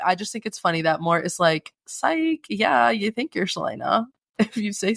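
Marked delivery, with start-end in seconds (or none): 1.9-4.9 teasing mock disbelief. Mort mocking Selena's fake name.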